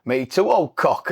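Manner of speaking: put-on slow, broad Barnsley old fella; broad Barnsley, taking it slowly; broad Barnsley accent. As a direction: imitate an old lad's drawn-out Barnsley. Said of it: "he started talking broad Barnsley".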